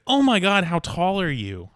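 loud, high gawking exclamation; hammed-up high, loud astonishment; mock amazement. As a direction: blurt it out like an astonished stranger. Acts out everybody gawking at height.

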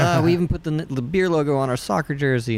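boasting English roommate. Retold or imitated. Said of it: "that was the best beer in the world".

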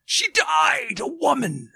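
very high, drawn-out ghost; slow, high apparition. A narrator's reading. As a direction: stretch the words in a high spectral voice. Ghost speaking to Scrooge.

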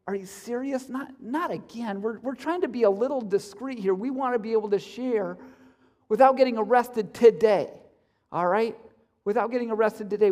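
hushed, annoyed aside; exasperated whisper-aside. Retold or imitated. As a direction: keep it down, you're exasperated. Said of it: "very well had been saying".

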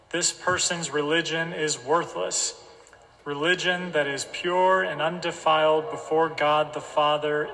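congregation reading aloud together; slow group reading of scripture; many voices in unison. Real, not acted. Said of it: "we'll encourage us to read it aloud together".

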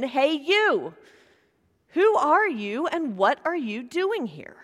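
mild mock yell from the guard; retold guard shouting at the lost rabbi. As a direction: call the challenge out again with a lighter push. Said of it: "the guard yelled at him again".

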